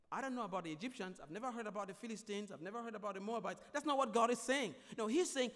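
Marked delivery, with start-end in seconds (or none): 0.1-3.6 mock dismissive God. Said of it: "God is not saying".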